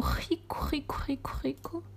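fading whisper. Real, not acted. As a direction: let each rico fade to a whisper. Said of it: "Isto é riquíssimo". (rico sussurrado cada vez mais baixo)

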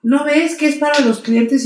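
high mock yell of an angry shop lady; retold yelling. Stationery-shop lady yelling at him to move his car, mock shout. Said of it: "me empieza a gritar de".

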